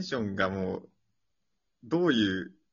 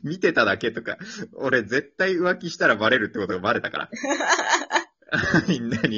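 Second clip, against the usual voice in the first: louder, laughter in the words; laughing while talking; 3 semitones higher, 6 dB louder than usual. Real, not acted. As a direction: talk through laughs at your own slip. Laughing through embarrassing story.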